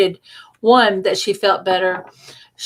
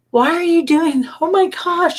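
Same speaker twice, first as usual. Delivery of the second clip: mock disbelief; 9 semitones higher than usual. Retelling reaction to friend closing school.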